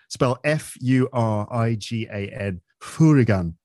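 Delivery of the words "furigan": hooligan said as "furigan", punched; Japanese pronunciation. Shown as a demonstration. After spelling it out, Japanese pronunciation. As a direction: hit the Japanese-style hooligan, f at the front. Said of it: "in Japan they call it".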